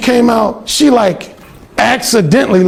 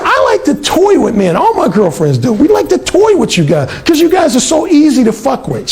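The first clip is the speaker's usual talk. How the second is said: mimicking the teasing roommate; 6 semitones higher than usual. Roommate voiced high.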